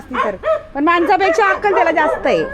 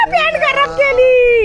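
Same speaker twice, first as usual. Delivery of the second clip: high, drawn-out squeal; dismayed exclamation; 8 semitones higher than usual. Real, not acted. Exclaims as dog dirties trousers. (उंच आवाजात लांबवून ओरडणे)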